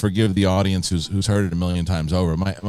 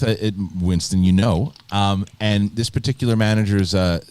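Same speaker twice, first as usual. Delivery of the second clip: usual speaking voice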